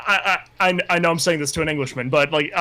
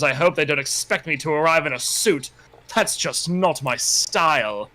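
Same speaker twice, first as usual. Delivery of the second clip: story narration. Acted. Reads the novel aloud.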